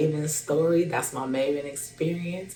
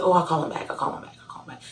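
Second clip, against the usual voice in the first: fading brush-off; 2 semitones higher, much faster than usual. Retold or imitated. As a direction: trail off, brushing him off. Brushing off Greg's calls.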